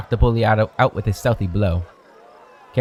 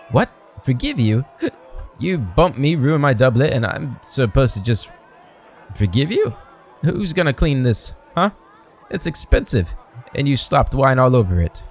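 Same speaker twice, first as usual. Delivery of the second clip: put-on higher, scoffing drunk nobleman; outraged and mocking, voice pitched up; indignant drunk; 3 semitones higher than usual. Bully scoffs at the apology over his doublet, indignant.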